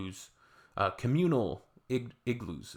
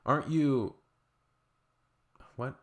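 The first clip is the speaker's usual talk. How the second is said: higher, mock sudden recognition; blurted out; 4 semitones higher, 3 dB louder, slower than usual. Performer spotting someone in the audience, blurting it out. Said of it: "blurted out something like".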